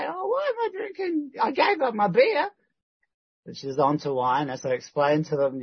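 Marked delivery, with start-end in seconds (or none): 0.1-2.5 high mock Kathy voice; hammed-up Kathy, much higher; imitating Kathy. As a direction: pipe up her excuse in a put-on high voice.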